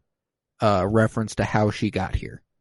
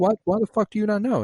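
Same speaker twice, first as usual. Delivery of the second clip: high, quick disbelieving squeal; mock incredulous; 12 semitones higher, faster than usual. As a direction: imitate her baffled outburst, pitched way up. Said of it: "And she's like".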